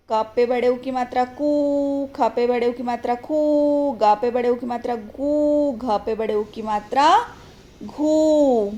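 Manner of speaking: singsong drill, stretching कू, खू, गू, घू; matra spelling drill. Shown as a demonstration. Teacher shows how the matra joins letters, spelling drill with long कू, खू, गू, घू. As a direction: recite evenly, holding the oo in कू, खू, गू, घू. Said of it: "इसको हम कैसे लगाएंगे?".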